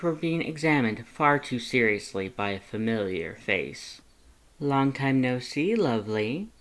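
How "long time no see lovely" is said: cooing. Acted. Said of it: "Lust cooed".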